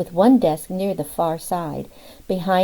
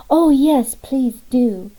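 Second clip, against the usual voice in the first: put-on a light Southern belle accent, pitched higher; a breathy-free Southern "yes, please do", lifted high; 6 semitones higher, 6 dB louder, slower than usual. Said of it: "in her deep Southern accent".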